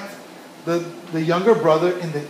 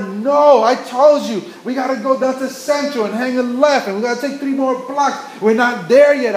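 mildly raised, pressing scold; retold angry yelling; 4 semitones higher than usual. Woman yelling at child on the corner, imitated scolding. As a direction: imitate an exasperated mother's telling-off. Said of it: "yelling at him at the top of her lungs".

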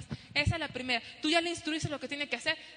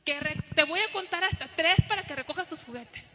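mock mom yell; 5 dB louder than usual. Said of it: "Y ya gritándoles".

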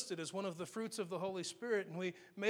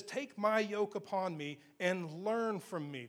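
scripture reading; slower than usual. Acted. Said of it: "He says".

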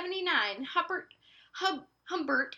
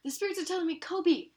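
psychic hotline; 3 semitones higher than usual. Retold or imitated. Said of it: "That is the fortune teller I will be".

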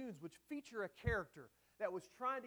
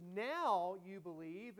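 sincere, affirming; much slower than usual. Shown as a demonstration. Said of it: "I don't think Jesus is being sarcastic".

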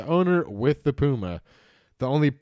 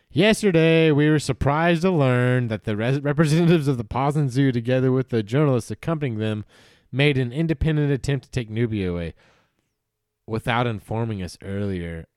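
formal statement read aloud. Shown as a demonstration. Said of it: "Local police in Silesia, who were called in only after Camille fled, said".

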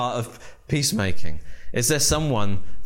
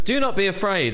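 higher, ringing angel's reassurance; angel's command; 9 semitones higher than usual. Acted. Angel to terrified shepherds, reassuring high call. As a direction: lift it as the angel calming them.

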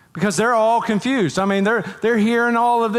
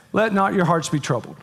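gentle reassurance; 5 semitones lower than usual. Acted. Jesus voiced, gentle comfort.

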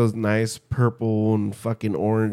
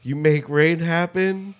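mock Creator voice; 5 semitones higher than usual. Voicing the Creator apologizing.

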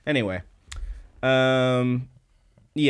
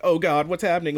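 higher-pitched pretend panic; mock freaking out; 6 semitones higher than usual. Girls behind Kana watching the sparks, mock panic. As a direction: act out alarmed onlookers. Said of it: "they're freaking out".

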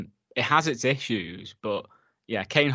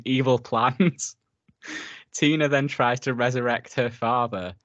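trying not to laugh; cracking up while reading the synopsis; real suppressed laughter breaking into the read; reading through laughter; 2 semitones higher than usual. Real, not acted. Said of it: "can't get through reading that without laughing".

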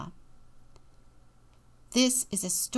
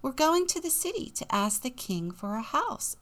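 lifted, higher Jack voice; young Jack; 6 semitones higher than usual. Acted. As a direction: answer brightly as storybook Jack. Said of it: "answered Jack".

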